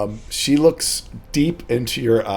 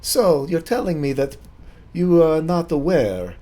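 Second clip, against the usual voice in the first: put-on higher-pitched French-accented lady; French lady, pointedly questioning; 5 semitones higher than usual. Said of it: "get in my French accent".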